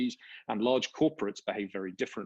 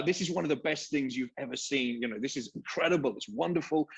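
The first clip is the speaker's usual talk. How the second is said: mildly higher, eager put-on American VC voice; light American accent; 4 semitones higher than usual. Panelist imitating a hyped US investor, light American accent. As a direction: sketch a gushing American investor, lightly, half-hearted accent. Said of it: "I'm doing the American bit".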